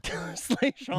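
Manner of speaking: Slaizong said high with a playful rise; extra emphasis. Shown as a demonstration. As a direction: lean into the name Slaizong with flair. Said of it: "put some extra emphasis on it".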